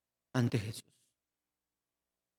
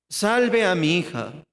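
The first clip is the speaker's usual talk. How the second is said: pleading; slower than usual. Shown as a demonstration. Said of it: "Está rogando".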